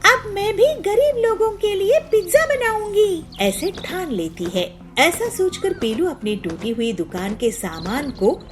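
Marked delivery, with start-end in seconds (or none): 0.0-3.2 determined anger. Acted. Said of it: "वो बहुत गुस्से में आ जाती है।".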